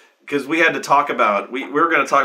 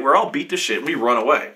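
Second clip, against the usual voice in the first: ordinary talk, nothing marked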